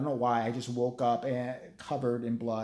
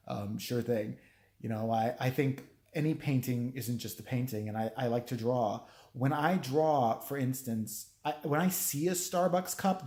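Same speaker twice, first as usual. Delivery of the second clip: lightly mock the self-important painter; pretentious artist; 2 semitones lower than usual. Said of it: "This guy said this".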